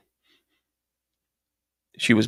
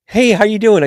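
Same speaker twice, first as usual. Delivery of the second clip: high, louder bright hello; imitating a client; 8 semitones higher, 5 dB louder than usual. Client greeting the psychic, in a high louder hello. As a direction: gush like an eager fan. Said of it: "she goes".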